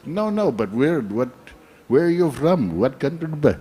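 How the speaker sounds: put-on Indian accent. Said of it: "I like doing Indian accent".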